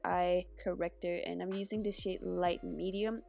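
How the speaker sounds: stuffy nose from a cold; blocked nose. Real, not acted. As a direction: talk with a congested nose. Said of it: "so I sound very congested".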